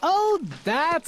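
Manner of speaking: slow, amused drawl; laughing dismissal. A narrator's reading. Captain laughs off the oobleck, slow and amused. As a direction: wave it away with a chuckle. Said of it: "laughed the captain".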